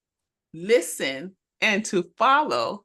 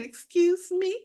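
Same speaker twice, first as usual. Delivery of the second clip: high, offended disbelief; young teacher stunned by the veteran's advice; indignant surprise; 9 semitones higher than usual. Retold or imitated. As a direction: act shocked and insulted. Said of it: "I said".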